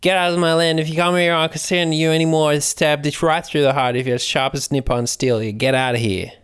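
high-pitched rant, words run together; acted yell. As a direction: yell in one unbroken high stream. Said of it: "I tend to yell and be like".

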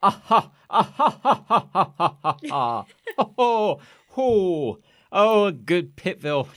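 loud, high sycophantic cackling, then a gushing oh; fawning fake laugh. A little fey hanger-on laughing at Pitville's jokes. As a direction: laugh way too hard at his jokes to suck up.

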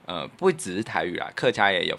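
ordinary talk, nothing marked

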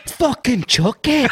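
slow, laughing cry of Chucky; laughing mock shout. Host retelling the ad with a laughing slow shout. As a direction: laugh out the name slowly. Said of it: "she's like "Chucky".

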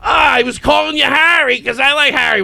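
mock whiny. Mocking the insane friend.

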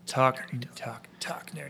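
whispery sultry tease; hushed, put-on sexy voice; mock sensual. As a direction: playfully whisper it like a seduction. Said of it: "in a real central voice".

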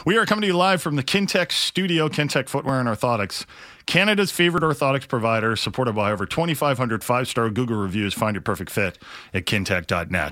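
upbeat sponsor read. Acted. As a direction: pitch the sponsor cheerfully.

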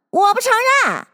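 high denying voice. A narrator's reading. March Hare denying.

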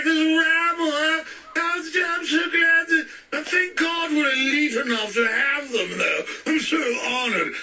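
mock posh royal fan. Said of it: "But instead she's like".

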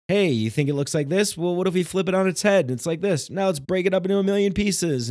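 excited, quick patter rising in pitch; silly trickster. Acted. Silly cosmic joker showing off wild tricks to a visitor, silly excited patter. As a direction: rattle it off like a playful trickster. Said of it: "there's this silly, like".

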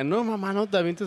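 imitated kid, pitched high; pleading child. Imagined boy pleading with his mother, high child voice. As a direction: mimic a child pleading with mom. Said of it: "que el niño te diga".

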